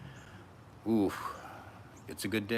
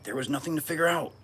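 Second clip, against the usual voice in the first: emphatic reveal; 10 semitones higher, 7 dB louder than usual. Real, not acted. Answering own question emphatically.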